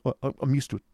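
high, timid stammer; nervous, high-voiced boy; fearful of offending. A narrator's reading. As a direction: stutter it meekly, anxious not to offend. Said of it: "obvious fear of giving offence in his manner".

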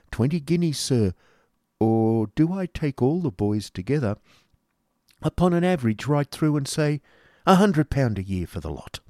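high, pompous schoolmaster voice; Squeers the schoolmaster. A narrator's reading. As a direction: play Squeers as a bluff, self-satisfied pedagogue.

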